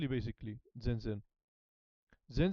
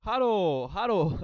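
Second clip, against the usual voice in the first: loud greeting; 6 semitones higher, 8 dB louder, much slower than usual. Real, not acted. Calling out a greeting on stream.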